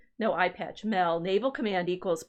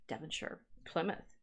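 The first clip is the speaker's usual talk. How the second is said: mock posh English; 4 semitones lower, 11 dB quieter than usual. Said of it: "That sounds posh".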